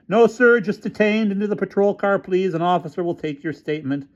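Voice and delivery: doubt every word he says; skeptical officer. A narrator's reading. Officer doubting the developer's story, high and suspicious. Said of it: "officer answering developer".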